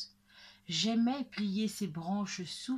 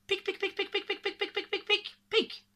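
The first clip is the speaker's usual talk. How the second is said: very high, rapid "pic" noises; machine-gun tiny squeaks on one high pitch; squirrel volley; 11 semitones higher, faster than usual. Acted. Ten squirrels throwing hazelnuts. (rafale de « pic » très aigus)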